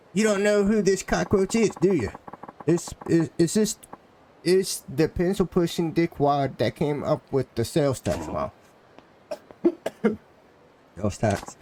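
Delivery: angry game townsman. Acted. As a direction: sneer at the bureaucrat as a riled-up local.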